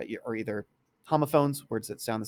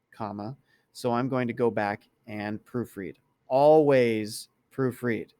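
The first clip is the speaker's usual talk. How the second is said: dictating; 5 dB louder than usual. Shown as a demonstration. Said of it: "it made a mistake back here".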